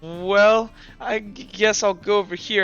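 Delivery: drawn-out, hesitant start; lightly acted awkward stumble over words; reluctant stammer. Kilroy agreeing to undress nearby, mildly awkward and reluctant. Embarrassed character must undress.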